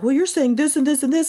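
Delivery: high-pitched parody of critics; mock objection. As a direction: imitate people pouncing with an objection. Mimicking people who jumped on her.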